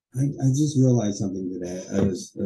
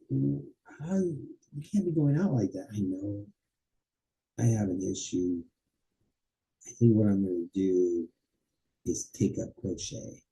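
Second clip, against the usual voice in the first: acted chat; 7 dB quieter than usual. Shown as a demonstration. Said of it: "Problem solution".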